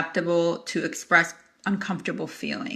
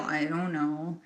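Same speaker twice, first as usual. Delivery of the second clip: unsure client; 3 semitones lower, 9 dB quieter, slower than usual. Retold or imitated. Client retreating when asked.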